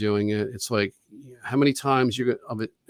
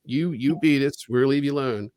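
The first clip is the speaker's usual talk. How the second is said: mock offer; 3 semitones higher than usual. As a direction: parody the liar's promise. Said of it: "mocking their offer".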